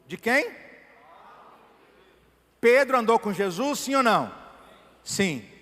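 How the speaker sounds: the preacher asks and the church answers, fervent; rousing preaching. Acted. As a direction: quiz the congregation with fire.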